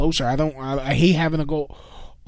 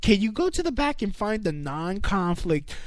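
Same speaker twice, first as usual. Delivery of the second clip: entitled white customer voice; 2 semitones higher than usual. Pretend. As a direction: ask with smug mock politeness. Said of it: "with all the white entitlement".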